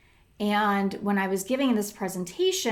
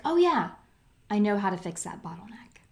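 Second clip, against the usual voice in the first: sudden realization; faster than usual. Retold or imitated. Imagined daydream realization.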